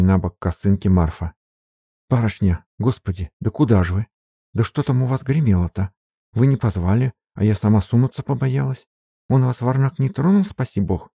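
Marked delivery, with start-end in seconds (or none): 2.1-11.1 higher, breathless servant woman fussing over mistress; flustered maid. Acted. Maid Marfa chasing her mistress, anxious and higher. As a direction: gasp it out like a worried peasant maid.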